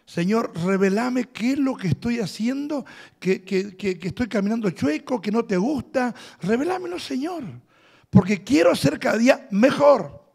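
quiet pleading prayer; soft prayer. Shown as a demonstration. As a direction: model a humble prayer softly. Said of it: "esa es la oración que usted tiene que hacer". (oración suave de súplica)

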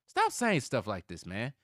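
loud, slow telling-off; exasperated scolding. Real, not acted. Scolding the player, first take.

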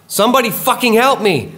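evil, high-pitched scream for help; piercing evil shriek; intense shrieking. A narrator's reading. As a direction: shriek it at full force, very high and loud. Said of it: "The most intense shrieking. Evil sounding".

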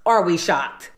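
flat, falling, unimpressed repeat; deadpan. Acted. Narrator teasing the audience about the fake watch, flat deadpan. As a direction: answer your own question dryly. Rhetorical aside to viewers.

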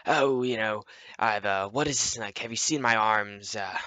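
lightly affected role-play voice; campy medieval LARP voice. Retold or imitated. Noob role-plays to another player, campy medieval voice. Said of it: "I'm role-playing, too, in, like, a really, like, gay voice".

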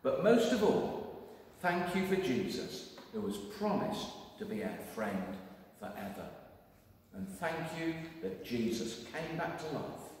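gentle spoken prayer. Acted. Leading children in an Easter prayer, gentle.

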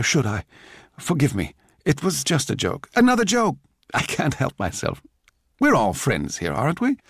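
lightly voiced joking apologizer. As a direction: apologize lightly, pitch leaping up on the joke.

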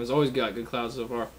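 talking around hookah pipe; mouthpiece at lips. Real, not acted. Seen 0: Wooden hookah mouthpiece held at lips while speaking, then inhaling.

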